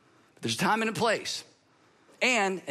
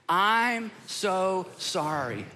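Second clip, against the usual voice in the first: quiet slow apology; much slower than usual. Shown as a demonstration. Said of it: "We gotta be real quiet".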